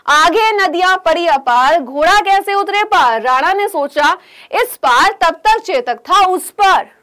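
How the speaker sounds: slow, measured poem reading; lightly chanted Hindi verse; verse recitation. Acted. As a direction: recite the couplet slowly for the class.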